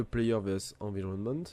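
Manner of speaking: English words in a heavy French accent; bad English accent. Real, not acted. Gamer explaining PVE to viewers, in self-mocked French-accented English. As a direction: read the English phrase with a thick French accent, mocking himself. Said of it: "mon accent dégueulasse".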